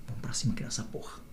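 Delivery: breathy whispered rally. Retold or imitated. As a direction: whisper it like a secret plan. Retold rallying the partner. (sussurrado, como um segredo)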